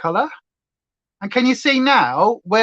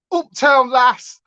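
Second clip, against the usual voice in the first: excited shout; 4 semitones higher, 3 dB louder, much slower than usual. Real, not acted. Shouting punny song title.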